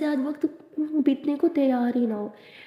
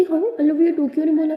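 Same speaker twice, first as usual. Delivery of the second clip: playful demand; 3 semitones higher, 6 dB louder than usual. Acted.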